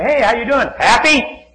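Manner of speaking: loud, high, exuberant greeting; happy acquaintance's greeting. Retold or imitated. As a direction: imitate a relentlessly cheerful man hailing someone. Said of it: "That's how he says it too".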